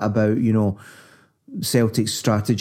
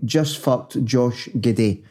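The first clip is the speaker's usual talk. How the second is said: quoted post; slower than usual. Retold or imitated.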